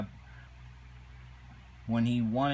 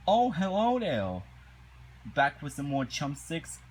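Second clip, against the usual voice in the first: sly greeting; 4 semitones higher than usual. Retold or imitated. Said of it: "Plankton's like".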